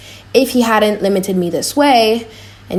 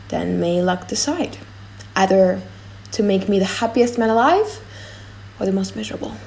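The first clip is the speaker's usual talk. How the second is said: proud prince; 2 semitones lower, 5 dB quieter than usual. Acted. Morocco's speech as character.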